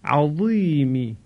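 عظیمی said slowly with a thick, emphatic ظ; a deliberate عظیمی with a weighty ظ; heavy ظ. Shown as a demonstration. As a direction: lean into the ظ of عظیمی. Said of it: "به این صورت".

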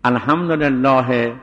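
الحمدلله slow, stopped on a voiced he; pause on the vowel. Shown as a demonstration. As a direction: draw out الحمدلله and pause on its final e. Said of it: "این وقت به حرکت شد".

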